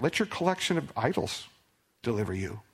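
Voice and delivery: mocking read, falling off at the end; dry sarcasm on idols; sarcastic. Shown as a demonstration. Preacher rereads God's sarcastic line. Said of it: "here's the irony or the sarcasm".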